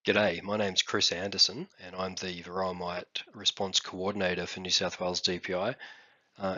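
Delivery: frog in the throat; slightly husky, recovering voice; hoarse voice. Real, not acted. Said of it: "I sound like I have a frog in my throat".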